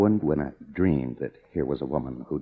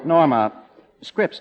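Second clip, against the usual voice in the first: name blurted through a laugh, louder and higher; 11 semitones higher, 7 dB louder, slower than usual. Acted. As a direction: laugh her name off in disbelief. Scoffing at astrology chart.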